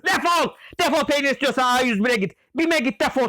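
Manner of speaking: angry yell. Acted. Shouting at a game customer.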